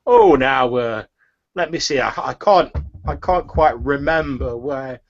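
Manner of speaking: a flustered shopkeeper stammering; a hint of a nervous old shopkeeper; turnip seller woman.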